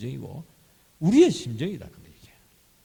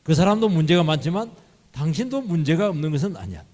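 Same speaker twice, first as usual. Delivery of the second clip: louder, emphatic fault-finding; 양비론으로 따지듯; 3 semitones higher, 5 dB louder than usual. Acted. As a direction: lecture them firmly that both are to blame. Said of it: "그래서 양비로". (목소리 높여 훈계하듯)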